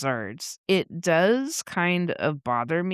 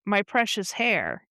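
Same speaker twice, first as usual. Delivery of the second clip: higher-pitched mock lament; lightly hammed-up wounded complaint; mock whining; 5 semitones higher than usual. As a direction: pretend to whine over a hurt. Acts out man grabbed by hair.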